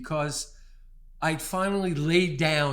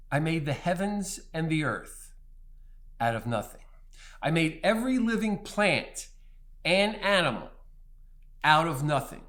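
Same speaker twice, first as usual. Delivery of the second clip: booming voice of God; 3 semitones higher, 5 dB louder than usual. Retold or imitated. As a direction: proclaim it from the mountain, building to a peak. Voicing God's answer, proclamation.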